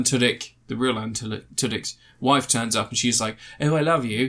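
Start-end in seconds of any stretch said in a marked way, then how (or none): 3.6-4.3 lightly exaggerated English accent; hammed-up English for a retold line. Alien's wife declares her love, exaggerated English accent. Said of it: "I started doing an English accent".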